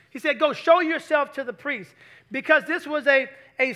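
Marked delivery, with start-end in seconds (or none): 0.4-1.9 louder, punchier command; emphatic quote. Shown as a demonstration. Preacher repeating Jesus' command louder for emphasis. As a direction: proclaim the words with force. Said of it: "I'm gonna tell you why he did that".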